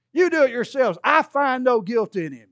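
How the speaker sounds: loud, high insistent protest; irritated Pilate. Acted. Irritated Pilate insisting to the crowd he finds no guilt. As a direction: insist in exasperation. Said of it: "Pilate gets really irritated".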